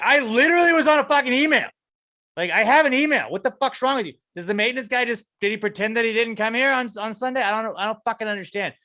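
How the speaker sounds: very high, very loud furious yelling; furious scream. Retold or imitated. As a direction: scream it, completely fed up. Screaming at the office staff.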